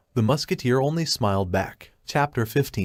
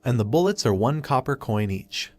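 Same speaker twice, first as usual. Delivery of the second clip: snide. Acted. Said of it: "The wholesaler snidely replies".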